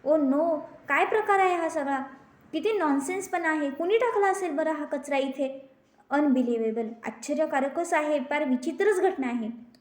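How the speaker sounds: put-on a mother fuming at the litter that hurt her child; annoyed outrage. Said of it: "Mrs जोशींना चीड येते". (चिडून संतापाने बोलणं)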